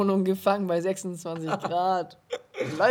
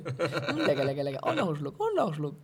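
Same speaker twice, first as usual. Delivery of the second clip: sipping and savoring coffee; imitating the kid who can't stop sipping; slurping hot coffee; 3 semitones lower than usual. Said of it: "sofort süchtig nach Kaffee".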